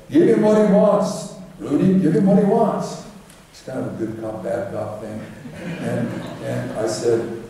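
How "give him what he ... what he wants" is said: raised, louder urging to hand it over; eager boss cutting in; president piping up. Retold or imitated. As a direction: cut in high and pushy, telling Rudy to give it up. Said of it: "the president pipes up".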